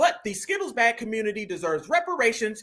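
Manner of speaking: plain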